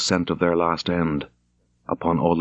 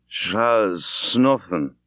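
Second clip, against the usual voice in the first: put-on drunken slur; much slower than usual. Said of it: "He spoke very thickly".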